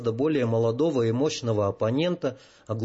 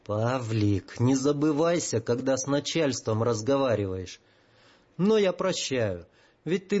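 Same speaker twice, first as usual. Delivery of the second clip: hissing. Acted. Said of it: "Зашипел он и на этот раз".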